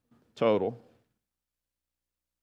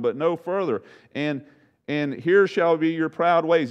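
raised voice of God reciting; God speaking; 7 semitones higher, 4 dB louder than usual. Acted. God reminding Job of creation, raised and proclaiming. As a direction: proclaim from on high, higher and a bit louder.

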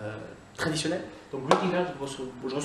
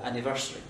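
anniversary with the stress on the E, an-ni-VER-sa-ry; 3 semitones lower, 3 dB quieter, faster than usual. Shown as a demonstration. Teacher repeating anniversary for learners. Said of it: "tonique sur le E".

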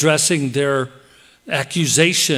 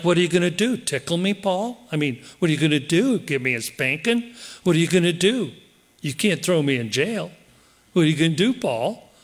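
taunting; 2 semitones higher, faster than usual. Retold or imitated. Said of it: "They're taunting him".

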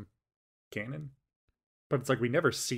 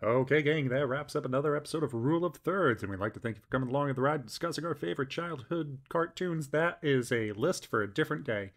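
quick host sign-off read; podcast outro. Acted. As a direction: wrap up the show like an announcer.

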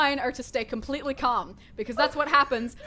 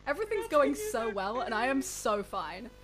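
forced calm; 2 semitones lower than usual. Acted. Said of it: "I'm saying that I'm okay".

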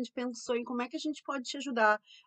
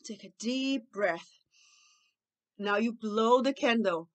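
put-on slow, measured instructions to a child; calm guided breathing; much slower than usual. Shown as a demonstration. Models breathing exercise for child. (orientação lenta de respiração)

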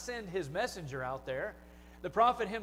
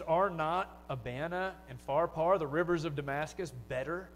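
raging Naaman. Retold or imitated. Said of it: "he goes on in his rage there".

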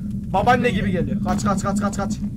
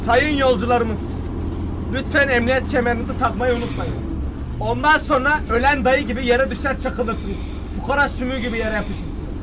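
measured, formal announcer delivery played for a joke; mock passenger announcement. Driver to passengers about seat belts, mock formal announcement. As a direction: address the passengers like an official safety notice.

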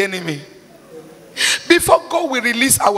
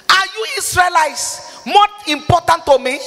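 angry God voice; 6 semitones higher than usual. Acted. Voicing angry God from Amos.

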